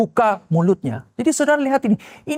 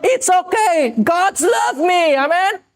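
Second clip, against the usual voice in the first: higher, slow, shouted God's love; triumphant declaration; 6 semitones higher, much slower than usual. Pretend. Pastor acts a believer answering a taunt with a slow joyful shout. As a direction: ring it out like a victory cry.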